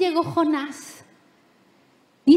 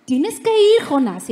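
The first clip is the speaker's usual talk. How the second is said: stern father; 3 semitones higher, 4 dB louder than usual. Retold or imitated. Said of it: "Dios como papá es".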